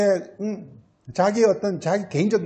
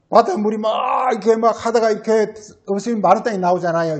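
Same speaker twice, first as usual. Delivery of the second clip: excited preaching; 2 semitones higher than usual. Real, not acted. Preaching at full force.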